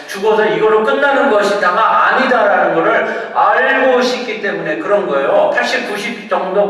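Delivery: loud, high-pitched sermon delivery; forceful preaching. Real, not acted. Preacher telling congregation everyone thirsts, forceful preaching.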